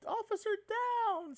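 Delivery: high, slow mock police call; drawn-out dramatic radio call; doing a voice. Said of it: "you're doing voices".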